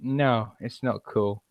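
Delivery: low, quiet mock menace; softly mock-threatening; mock threat. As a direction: deliver the threat low and understated. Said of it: "it's like".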